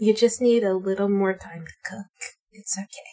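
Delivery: whispering. Speaking in character to a dandelion bud, leaning down: whispering. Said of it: "leans down and whispers to the dandelion".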